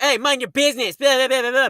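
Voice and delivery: lightly mocked telling-off; nasty grandmother. Imitating grandmother rebuking a stranger, mildly nasty. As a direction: imitate a rude grandmother cutting someone off. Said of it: "being all nasty".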